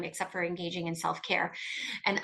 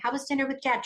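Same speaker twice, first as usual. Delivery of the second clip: bright, higher, too-sweet question; overly nice; 5 semitones higher, faster than usual. Retold or imitated. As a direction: ask it with forced cheer. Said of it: "Trying to be nice".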